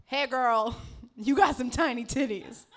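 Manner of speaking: leering catcall, mock-earnest; helpful catcaller. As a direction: call it out like a favor. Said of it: "he's like, what if she doesn't know".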